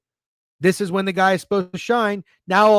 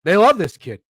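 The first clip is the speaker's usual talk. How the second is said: louder, put-on voice parodying the insider; mock insider voice; 6 dB louder than usual. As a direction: ham up the smug insider. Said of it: "Warren Sharp being like".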